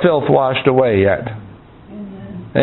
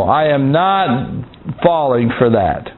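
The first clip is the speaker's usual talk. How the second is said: slow, weighted words, dropping at the end; measured refusal with a pause after NOT; acted firm refusal; 3 semitones lower, slower than usual. Preacher acting out resisting temptation, slow firm refusal. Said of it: "Then you say".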